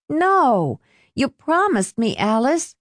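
put-on high, pleading boy; begging. A narrator's reading. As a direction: plead with her not to back out. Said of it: "Lester begged".

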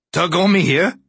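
nervous squeak on the phone; squeaky voice. A narrator's reading. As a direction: voice squeaks up high and loud. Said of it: "His voice squeaked".

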